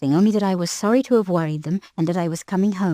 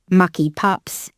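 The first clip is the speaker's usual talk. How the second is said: drawn-out muttering beefeater; slow muttered grumble; 3 dB louder, much slower than usual. A narrator's reading. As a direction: grumble it slowly to yourself. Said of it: "He was muttering to himself".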